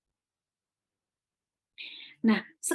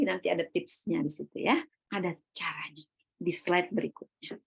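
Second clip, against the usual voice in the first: bisikan sampingan; 5 semitones lower, 5 dB quieter than usual. Real, not acted. Catatan samping berbisik.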